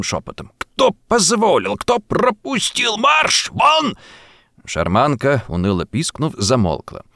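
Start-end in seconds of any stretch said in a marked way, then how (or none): 0.6-4.0 high, furious order to get out; bossy angry shout. A narrator's reading. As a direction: chase them off like a frightened boss. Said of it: "начальственно сердитым".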